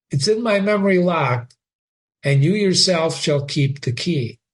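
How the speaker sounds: fond farewell, gently weighty; lightly voiced Polonius. Father to son at parting, lightly voiced elder.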